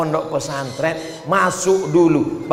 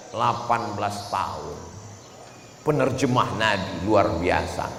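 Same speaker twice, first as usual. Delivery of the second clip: hushed reveal; 7 semitones lower, 6 dB quieter than usual. Acted. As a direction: drop the voice for the answer. Dramatic reveal.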